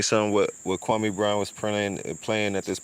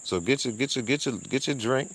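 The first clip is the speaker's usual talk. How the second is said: quoting the pastor; 2 semitones higher, faster than usual. Retold or imitated. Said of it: "He said".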